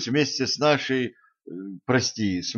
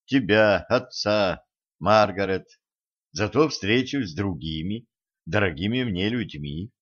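ordinary delivery, nothing marked

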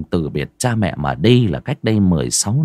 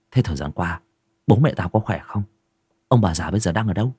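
Den's voice. Acted. Den explains, worried.

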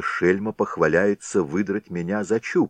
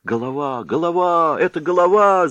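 high, loud panicked cry of recognition; alarmed shouts; 11 semitones higher, 5 dB louder than usual. A narrator's reading. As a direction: shout the warning and scatter. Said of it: "закричали хлопцы". (хлопцы в испуге кричат)

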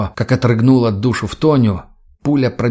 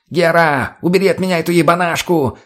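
high-pitched panicked plea; squealing; 6 semitones higher than usual. A narrator's reading. Mutny begs Gera as armed Tonya approaches, squealing. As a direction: squeal for help. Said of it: "взвизнул Мутный".

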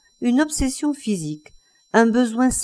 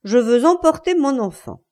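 firm, raised demand; resolute; 4 semitones higher, 4 dB louder than usual. Acted. Wife demands her child from husband, resolute. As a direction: state it with resolve. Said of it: "résolue".

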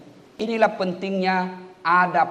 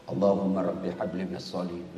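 soft, low prayer into the ear; whispered prayer; 10 semitones lower, 8 dB quieter than usual. Retold or imitated. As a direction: breathe it into the boy's ear. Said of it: "Saya bisik telanganya".

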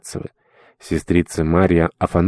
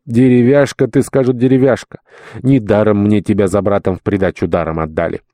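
mock angry scolding. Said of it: "разгневаются".

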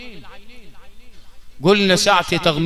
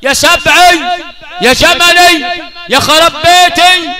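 loud, high imitation of mourning women's lament; mock wailing; 8 semitones higher, 10 dB louder, slower than usual. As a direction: wail it like a grieving widow. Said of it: "women's wailing". (تقليد نواح النساء بصوت عالٍ)

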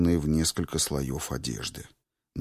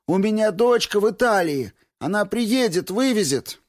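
wailing plea; 6 dB louder than usual. A narrator's reading. Patient begging doctors to cure her, loud high wailing. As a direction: wail desperately for help at full pitch. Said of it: "Она сразу продолжала".

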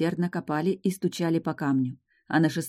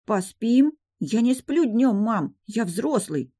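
put-on indignant boy; 6 semitones higher, slower than usual. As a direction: protest like an insulted boy. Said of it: "возмутился Марк".

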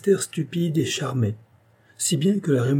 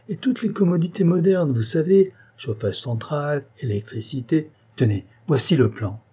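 higher, brighter selling voice; eager salesman uncle; sales pitch; 4 semitones higher than usual. Acted. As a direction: talk up the house.

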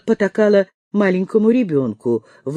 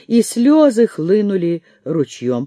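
ordinary delivery

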